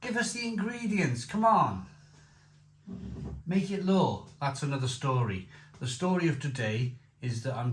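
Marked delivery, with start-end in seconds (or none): 0.0-4.2 rallying demand. Real, not acted. Demanding labelling law.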